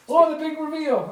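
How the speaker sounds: high mock amazement; sarcastic. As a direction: fake gasp at the reveal. Mock reveal reaction.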